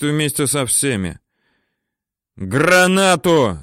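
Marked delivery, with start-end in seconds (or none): 2.3-3.6 higher, slow bellowed demand; yell. A narrator's reading. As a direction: shout down for a grenade. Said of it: "орёт Теренчук".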